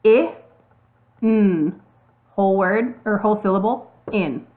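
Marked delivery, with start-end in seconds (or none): 0.1-1.8 I and N sounded one by one, each held apart; teacher modelling I, N letter by letter; sounding out letters. Shown as a demonstration. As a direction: sound out I, then N, slowly for young readers. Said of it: "let's sound out the first one".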